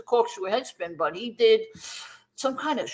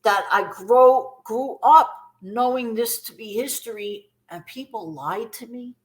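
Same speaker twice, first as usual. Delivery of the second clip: mock angry complaint; 3 dB louder than usual. Retelling fans who feel lied to about history, mildly indignant. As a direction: lean into the grievance, a touch indignant. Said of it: "some people are angry and say".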